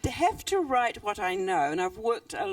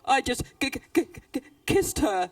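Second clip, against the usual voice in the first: repeated "k-" then a louder "kissed her"; sheepish stutter; 2 semitones higher, 5 dB louder than usual. Acted. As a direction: stall before the embarrassing word. Snake stutters the punchline.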